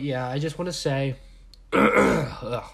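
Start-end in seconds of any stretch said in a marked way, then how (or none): 1.7-2.6 sick groan, loud and short. Real, not acted. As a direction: groan as the illness kicks in. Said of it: "covid's kicking in".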